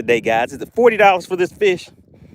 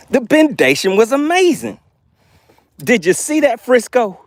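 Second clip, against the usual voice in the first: higher, buzzing with excitement; thrilled; 8 semitones higher than usual. Real, not acted. Streamer to chat viewer Frisco after the catch, thrilled.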